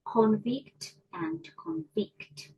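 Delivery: "Convict" first with stress on CON, then "convict" with stress on VICT, slowly; stress shift demo. Shown as a demonstration. Teacher showing students how stress changes meaning, slowly. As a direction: show the stress moving from first to second syllable. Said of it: "stress in English impact meaning".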